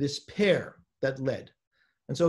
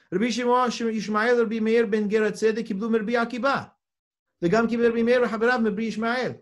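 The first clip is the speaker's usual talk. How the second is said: louder, higher, even recitation; reading aloud; 5 semitones higher, 5 dB louder, faster than usual. Real, not acted. Teacher reading out the next generation, raised recitation voice. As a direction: recite the Hebrew names with raised, steady voice.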